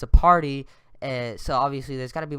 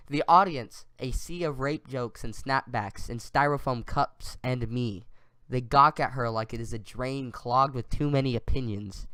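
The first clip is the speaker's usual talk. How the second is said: poem reading; 2 semitones lower than usual. Acted. Reading a friend's slam poem to his co-host, measured recital. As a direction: read the verse out deliberately, unhurried at the ends.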